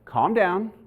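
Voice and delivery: patient wife, lightly imitated; calming. Wife sending husband back to his bag, calming. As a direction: reassure in short, measured phrases. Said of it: "what to do to calm me down".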